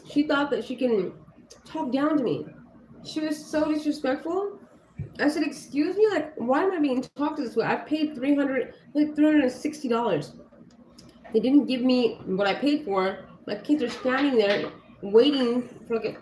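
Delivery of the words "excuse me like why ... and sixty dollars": retold objection, pitched higher; indignant protest. Customer objecting to being talked down to, indignant protest. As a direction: push back in a raised pitch, affronted.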